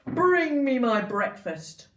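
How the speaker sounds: loud, slow booming giant command; giant's demand. Acted. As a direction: bellow at his wife like a giant. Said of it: "he said".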